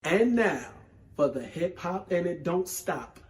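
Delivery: hyped-up host intro; announcing the weekly segment to viewers, hyped-up; segment announcer. Acted. Host introduces the weekly segment, announcer style. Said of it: "announces show segment".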